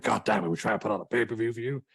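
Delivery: hammed-up boss losing it, pitch climbing; exasperated Vince McMahon. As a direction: rant in mock outrage. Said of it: "he's lost it with Kim Jong-un".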